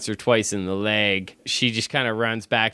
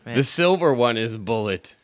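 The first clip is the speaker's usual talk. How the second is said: imitating her; 4 semitones higher, 3 dB louder than usual. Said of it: "She's like".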